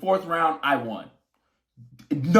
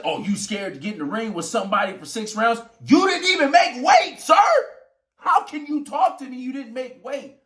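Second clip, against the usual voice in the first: mocking taunt; 7 semitones higher than usual. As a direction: sneer it back the way he said it. Opponent quoted mocking at weigh-in.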